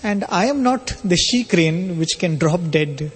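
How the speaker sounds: measured, unhurried retold reply; gently spaced phrases, calmly retold. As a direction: say it composedly, pausing between phrases. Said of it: "And very calmly".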